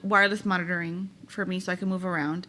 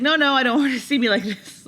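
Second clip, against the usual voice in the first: retold upset refusal; 5 semitones higher, 6 dB louder than usual. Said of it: "And I was like".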